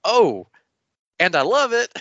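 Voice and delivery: high, loud gushing delight; delighted reaction. Acted. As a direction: squeal it out with a burst of joy. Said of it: "her reaction, Alana's face".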